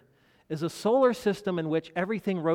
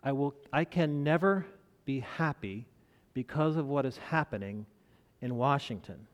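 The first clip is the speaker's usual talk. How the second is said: gloomy. Retold or imitated. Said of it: "it was how he said it".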